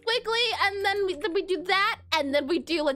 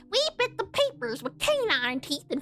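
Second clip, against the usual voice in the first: put-on old-timer; 4 semitones lower, slower than usual. Old-timer "back in my day" joke.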